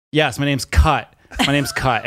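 "Cut" with a short vowel and no R; resigned British-style "Cut"; Kurt as Cut. Retold or imitated. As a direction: give in and say "Cut" slowly. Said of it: "it said C U T".

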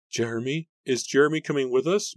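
high, anxious question; distraught high-pitched demand. A narrator's reading. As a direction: ask insistently, voice climbing. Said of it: "Mary demanded".

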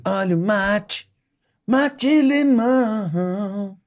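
slow high drawn-out vendor cry; singsong beach vendor call. Retold or imitated. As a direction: sing it out like a beach mate seller. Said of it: "Lembra dessa propaganda?".

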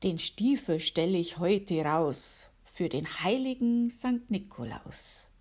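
gentle rhyming recital for listeners; poem reading. Acted. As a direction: read it like a little holiday poem. Reads her own poem aloud.

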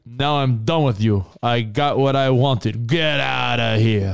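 slow, cool brush-off; lightly voiced cocky wrestler; dismissive tough guy. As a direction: drawl it out like a macho jerk. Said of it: "And he's like".

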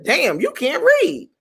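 high, slow disbelieving verdict; appalled. Retold or imitated. Producer watching a bad script reading, appalled. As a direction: draw it out in mock astonishment.

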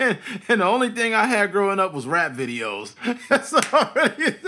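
loud, high-pitched, talking through laughter; laughing. Real, not acted. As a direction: crack up while confessing. Laughing at own confession.

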